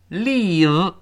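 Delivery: "Leave" alone, final v made with teeth on lip; careful articulation. Shown as a demonstration. Teacher showing the teeth-on-lip v, "Leave" pronounced carefully. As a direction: isolate "Leave" and finish on the v. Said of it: "注意有个上牙触下唇的动作".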